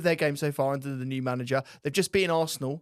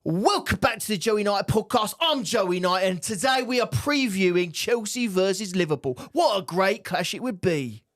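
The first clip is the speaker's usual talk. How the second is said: slow presenter voice in Essex twang; Essex accent; 2 semitones higher, slower than usual. Retold or imitated. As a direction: imitate a podcast host, Essex style. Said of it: "wait till you get the Essex out".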